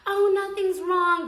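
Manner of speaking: high, loud, slow fake-sweet voice; imitating her sugary innocence; hammed-up mock of the friend acting sweet.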